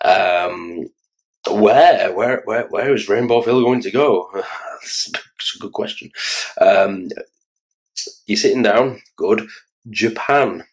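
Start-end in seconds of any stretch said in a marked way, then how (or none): 4.3-6.1 breathy laugh through the words; real amused chuckle. Real, not acted. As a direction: laugh it off, half to yourself. Laughs after own question.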